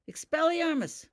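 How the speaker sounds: loud, high sudden incantation; quick spell cast. A narrator's reading. Ravenda striking fast at Holly, loud spell. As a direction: snap the spell out before she's ready. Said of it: "Ravenda said almost before".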